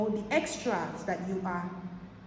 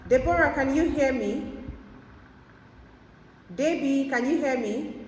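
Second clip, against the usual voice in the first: calling out; 5 semitones higher, 4 dB louder than usual. Real, not acted. Calling out to a caller who can't hear her.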